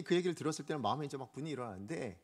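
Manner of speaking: usual speaking voice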